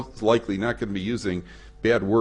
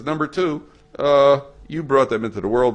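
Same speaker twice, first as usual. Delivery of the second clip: indignant rich man; 6 semitones higher, 6 dB louder than usual. Retold or imitated. Rich man rebuffs fundraiser.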